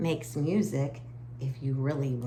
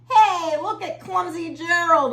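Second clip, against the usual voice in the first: sneering; 12 semitones higher, 6 dB louder than usual. Acted. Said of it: "the animals all sneered".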